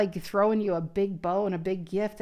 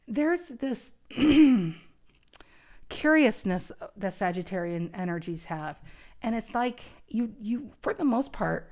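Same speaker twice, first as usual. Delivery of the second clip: losing voice; 2 semitones higher than usual. Real, not acted. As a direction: voice giving out, a bit strained. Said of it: "I'm losing my voice".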